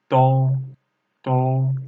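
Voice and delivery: "Do" held level in first tone. Shown as a demonstration. Teacher showing learners "do" in first tone. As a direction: keep "do" steady and level, no glide. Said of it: "first tone".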